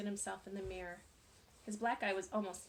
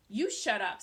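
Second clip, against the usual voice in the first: angry; 8 dB louder than usual. A narrator's reading.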